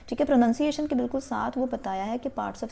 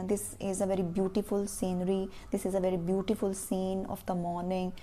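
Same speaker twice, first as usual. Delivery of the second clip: slow, soft, word by word; slow dictation of an example sentence; slow model sentence; 3 semitones lower, 4 dB quieter, much slower than usual. Shown as a demonstration. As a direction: read it out slowly for the class to copy. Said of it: "कह सकते हो आप".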